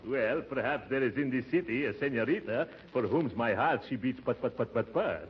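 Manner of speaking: hammed-up Brazilian accent. Disguised uncle greeting the receptionist, mock Brazilian accent. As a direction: play the suave Brazilian baritone. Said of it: "don't forget your Brazilian accent".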